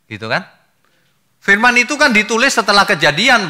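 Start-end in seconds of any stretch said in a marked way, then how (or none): 1.4-3.5 loud, high insistence; emphatic preaching. Real, not acted. Preacher insisting loudly to the congregation. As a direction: hammer the point home to the congregation. Preacher stressing his point.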